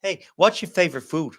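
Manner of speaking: put-on American small talk; American accent. Shown as a demonstration. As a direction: prompt her in a playful American voice. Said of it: "do an American accent".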